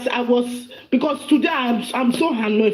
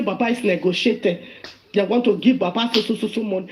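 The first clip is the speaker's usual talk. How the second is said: lowered mocking voice; 5 semitones lower than usual. Mimicking Susu's claim.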